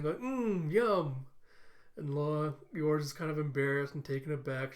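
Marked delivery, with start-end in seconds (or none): 0.2-1.3 put-on high, smiling child voice; Anya. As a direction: savour it like a delighted little kid. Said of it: "as Anya's just smiling".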